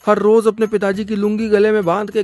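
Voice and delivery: mock-weepy, imploring mother; tearful pleading. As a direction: beg the baba for your son. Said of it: "बल्लू की माँ रोते हुए".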